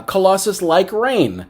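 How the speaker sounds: lightly voiced foreign strongman; mock broken English, drawn out; Colossus. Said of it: "somebody speaking broken English who speaks a different language".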